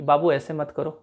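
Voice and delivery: soft and gentle, not scolding. Shown as a demonstration. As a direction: ask sweetly, बाबू ऐसे मत करो, no edge. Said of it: "इस तरीके से बोलूँगा कि".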